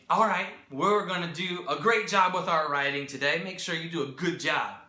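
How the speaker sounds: vague pep talk to a class, lightly acted; mock teacher direction. Shown as a demonstration. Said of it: "you can't just say".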